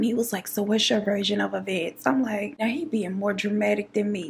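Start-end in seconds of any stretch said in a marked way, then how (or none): 0.5-2.1 mock investigator. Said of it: "like an investigator on a crime scene".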